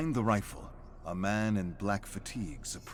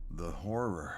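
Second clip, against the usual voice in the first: grim detective; 3 semitones lower, 3 dB quieter than usual. Acted. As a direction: say it darkly. Detective names monster.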